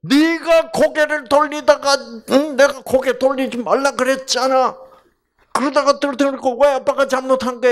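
a father coldly arguing the facts; dull scolding father. Retold or imitated. Unromantic father scolding his daughter over the sunglasses. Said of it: "멋대가리 없는 아빠".

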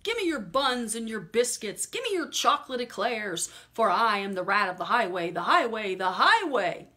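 loud booming highwayman cry; thundering rat. Acted. The highway rat thundering at the squirrel, booming. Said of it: "who thundered".

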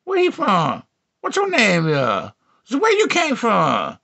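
high-pitched drawn-out calling; mock pickup holler. Calling out to a white boy, high drawn-out holler. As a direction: holler it high, endings sliding down. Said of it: "I be like".

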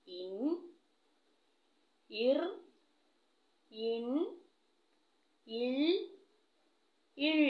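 each chillu ending said slowly and clearly, separated by long pauses; chillu sounds. Shown as a demonstration. Teacher drilling young pupils on the five chillu sounds, slow and clear. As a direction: sound out ഇൻ, ഇർ, ഇൻ, ഇൽ, ഇൾ one at a time, each cut short at the consonant. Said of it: "ഏതൊക്കെയാണ്?".

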